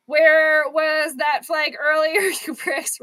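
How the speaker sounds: loud, slow yell at the TV; shouting at refs. Real, not acted. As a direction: bellow it at the referees. Yelling at the referees.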